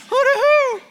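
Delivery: high, loud yard holler; shouted family call. Shown as a demonstration. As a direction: holler it out to call the boys home. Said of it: "That's the call of the wild".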